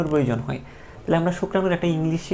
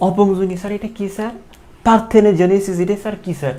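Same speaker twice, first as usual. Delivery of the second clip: mock confused student; 2 semitones higher, 3 dB louder than usual. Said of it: "এখন কেউ কেউ comment করবে".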